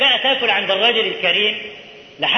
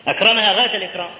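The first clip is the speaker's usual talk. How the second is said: quick repeat; faster than usual. Shown as a demonstration. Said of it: "الرجل فعلًا أكرمها غاية الإكرام،".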